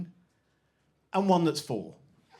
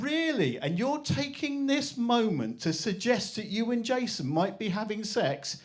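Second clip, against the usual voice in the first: incredulous mother; 6 semitones higher than usual. Retold or imitated. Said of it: "And I went".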